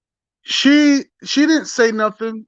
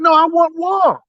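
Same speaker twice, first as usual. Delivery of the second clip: angry shout; 4 semitones higher than usual. Pretend. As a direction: shout it like a furious widow. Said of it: "She would have said".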